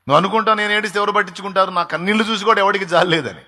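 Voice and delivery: high impassioned preaching; preaching at full force. Acted. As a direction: preach it hard, mimicking the doubter. Preacher voices listener's despair.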